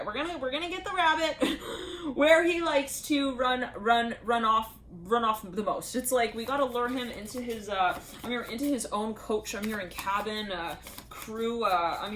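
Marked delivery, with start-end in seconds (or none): 0.1-6.0 excited. Real, not acted. Excited channelled message.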